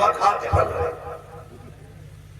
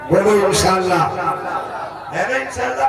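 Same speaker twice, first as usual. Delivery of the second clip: calling out to crowd. Real, not acted. Preacher calls crowd to respond.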